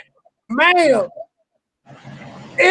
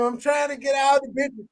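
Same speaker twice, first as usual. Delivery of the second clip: yelling; 6 dB quieter than usual. Real, not acted. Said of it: "Why are you".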